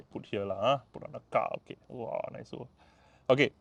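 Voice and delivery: normal talking voice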